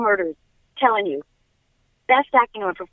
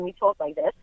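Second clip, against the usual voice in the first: softer Long Island accent demo; 3 semitones lower, 4 dB quieter than usual. Shown as a demonstration. Explaining how her people talk, Long Island accent. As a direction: lean into the Long Island vowels, softly. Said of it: "from Long Island".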